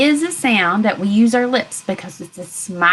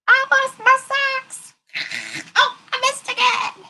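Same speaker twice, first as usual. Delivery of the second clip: playful dismay. Pretend.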